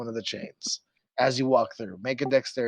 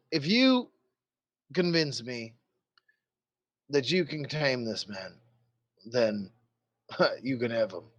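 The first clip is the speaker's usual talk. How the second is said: a hint of a commander setting terms; bargaining guard captain. Game master plays guard captain.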